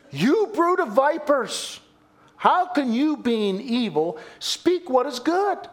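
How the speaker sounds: stern rebuke. Acted. Preacher reading Jesus' rebuke.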